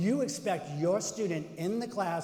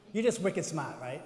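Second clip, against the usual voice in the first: a touch of Boston accent slipping out. Real, not acted. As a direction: let a little Boston accent through. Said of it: "there's my Boston accent".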